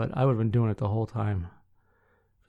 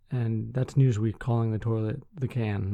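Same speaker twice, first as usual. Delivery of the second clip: ordinary talk, nothing marked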